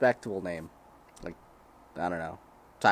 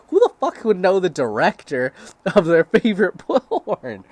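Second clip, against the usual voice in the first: incredulous rant; 7 semitones higher, 8 dB louder than usual. Real, not acted. Incredulous rant about knowing directors.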